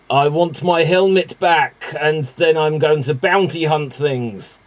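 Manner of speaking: lightly attempted character accent; a hint of a put-on bounty hunter accent; Boba Fett. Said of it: "that's my best, whatever accent he has".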